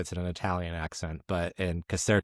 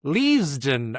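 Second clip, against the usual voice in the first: mock realisation; 4 semitones higher, 4 dB louder, slower than usual. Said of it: "it's Leavesden".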